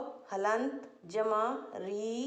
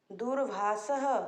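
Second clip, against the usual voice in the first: slow careful word; slower than usual. Shown as a demonstration. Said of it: "तो हम बोलेंगे".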